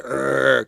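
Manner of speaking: long, low-key acted groan; drawn-out moan of pain. Norman beaten up on the ground, groaning. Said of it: "'cause Norman's all beat up".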